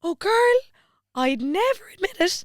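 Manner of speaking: high, lilting imitation of a Cork woman; Cork accent. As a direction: put on a big singsong Cork accent. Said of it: "She's a real Cork accent".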